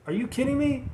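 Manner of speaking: high, incredulous mock outburst, swearing at the news; exasperated disbelief. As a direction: throw up your hands at hard news. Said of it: "it's like".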